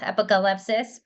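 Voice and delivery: "apocalypse" lightly put into an English accent. Shown as a demonstration. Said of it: "And the English accent".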